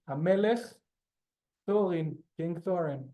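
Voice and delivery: Thorin with an Israeli accent, rolled r. Shown as a demonstration. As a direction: say Hamelech, Thorin like a native Israeli. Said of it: "now an Israeli will say it".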